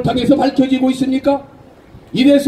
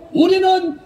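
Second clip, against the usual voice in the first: shrill echoing propaganda broadcast; 5 semitones higher, 4 dB quieter than usual. Real, not acted. Closing rally cheers.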